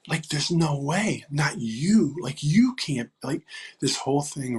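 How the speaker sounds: mildly acted disbelief; retold disbelief. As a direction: retell your stunned reaction. Retelling his disbelief at her news.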